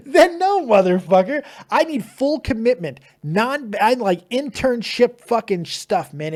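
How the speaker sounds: loud, high-pitched mock indignation; mock outrage. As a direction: refuse him in a big, joking outburst. Mock outburst refusing half-hearted co-host.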